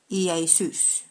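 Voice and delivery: "Iesus" said slowly, ee-ay-SOOS, stress on the last syllable; Koine Greek pronunciation. Shown as a demonstration. Preacher teaching the Greek name to his listeners, slow, stress on the last syllable. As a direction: draw out "Iesus" with the weight on SOOS. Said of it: "with the emphasis on the last syllable".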